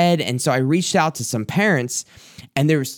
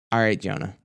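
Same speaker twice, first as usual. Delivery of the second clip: resigned sigh; 5 semitones lower, 5 dB quieter, faster than usual. Retold or imitated. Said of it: "she let out a sigh".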